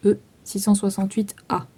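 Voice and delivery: fast, matter-of-fact repeat of the code; quick repeat of the code; quick restatement. Shown as a demonstration. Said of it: "Enfin, vous écrivez".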